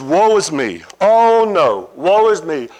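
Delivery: terrified Isaiah. Acted. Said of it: "He says".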